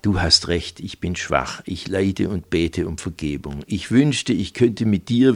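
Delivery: a hint of a pleading seducer of the cloth; pious preacher. Preacher sweet-talking Silke on the sofa, lightly voiced fervent pleading.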